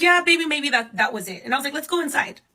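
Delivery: calm him while hiding the panic; soothing. Retold or imitated. Mother reassuring her frightened son, high and gentle. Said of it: "But inside, my chest is".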